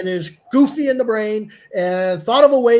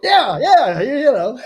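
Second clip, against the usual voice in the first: ordinary talk, nothing marked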